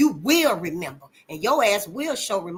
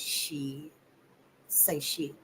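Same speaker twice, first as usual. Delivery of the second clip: tag; 7 semitones lower, 14 dB quieter, much slower than usual. Retold or imitated. Cousin coaching little kids to cuss.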